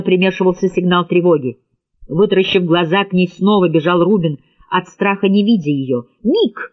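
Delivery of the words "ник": high sharp call of a name. A narrator's reading. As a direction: yell for him across the room. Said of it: "крикнула Ли".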